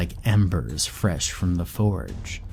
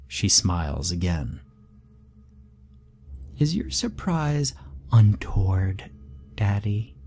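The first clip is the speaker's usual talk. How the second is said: put-on little girl Rebecca. Creepy little daughter chatting to her father. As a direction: play the eerie little girl brightly. Child voice relaying threat.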